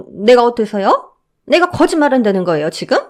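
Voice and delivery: mother-in-law offended by the guard; offended woman. Acted. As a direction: take offence.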